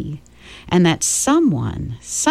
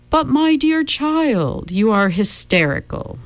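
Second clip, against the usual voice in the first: smooth villain voice; 8 semitones higher than usual. A narrator's reading. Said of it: "the man thought at her".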